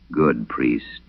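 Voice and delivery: low, sly demon murmur; lightly voiced creeping demon; low whisper. A narrator's reading. Possessed girl mocking the priest, low sly murmur. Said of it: "it whispered".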